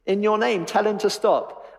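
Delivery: high, whiny tattling to the boss; whining complaint. Acted. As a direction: whine it like a put-out tattletale. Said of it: "whining and complaining".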